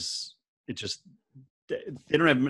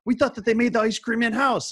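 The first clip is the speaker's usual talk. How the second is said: high, loud whiny-crowd imitation; mock indignant complaint; 13 semitones higher, 5 dB louder than usual. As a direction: mimic outraged partygoers at a raised pitch. Acting out complaining partygoers.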